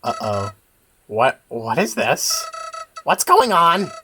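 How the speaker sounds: scheming villain flower. Acted. Villain flower berating his partner, sneering then betrayed. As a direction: scold the partner, then turn to betrayed outrage.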